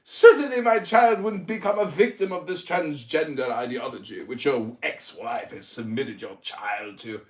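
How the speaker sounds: lecturing in a put-on English accent; mock English accent. Roasting Tuna Boy's family, in a fake English accent. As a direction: sermonize with mock posh English scorn. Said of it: "my English accent is so mocking".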